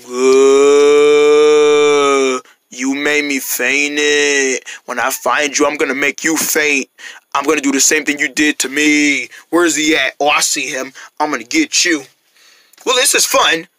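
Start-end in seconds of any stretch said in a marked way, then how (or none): 0.1-12.0 low, slow pig voice; menacing pig. Acted. Zombie pig vowing to get the rabbit, menacing.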